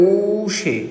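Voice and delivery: ঔষে with a long drawn-out first vowel; pronunciation demo. Shown as a demonstration. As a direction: model ঔষে for learners, "ooo-shey". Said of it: "উচ্চারণটা হবে".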